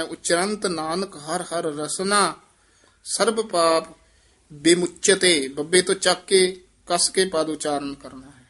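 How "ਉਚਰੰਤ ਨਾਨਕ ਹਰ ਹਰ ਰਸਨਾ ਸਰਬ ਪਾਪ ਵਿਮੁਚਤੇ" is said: ਉਚਰੰਤ tight, ਵਿਮੁਚਤੇ taken from ਬ; firm ਉਚਰੰਤ. Shown as a demonstration. Teacher showing the student a firm ਉਚਰੰਤ. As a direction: press ਉਚਰੰਤ firmly. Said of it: "ਉਚਰੰਤ ਵੀ ਥੋੜ੍ਹਾ ਜਿਹਾ ਕਸ ਕੇ ਬੋਲਣਾ".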